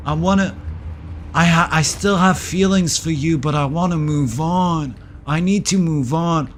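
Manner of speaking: mildly mocking impression of an ex; imagined ex voice. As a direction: mimic him as he sounds in an angry head. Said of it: "That's how he speak in my mind".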